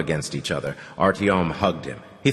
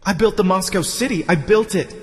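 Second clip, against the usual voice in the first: high, insistent raving; delirious boaster; 13 semitones higher, 4 dB louder than usual. Acted.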